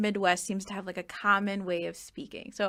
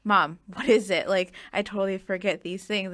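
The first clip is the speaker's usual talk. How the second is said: confused daughter; 5 dB louder than usual. Retold or imitated. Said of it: "And I'm like".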